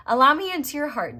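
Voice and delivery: a touch of a gentle spirit guide; guardian angel voice. Acted. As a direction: speak as the angel inviting them in.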